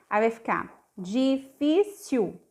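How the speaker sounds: "difícil" said slowly, final L as a U, d͡ʒifisu; slow difícil ending in U; L as U sound. Shown as a demonstration. Teacher showing the final L of difícil as a U. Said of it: "som de U".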